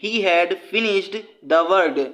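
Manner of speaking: very slow, every word spaced out for students; slow dictation read. Shown as a demonstration. Teacher reading a quiz question to students, very slow and deliberate.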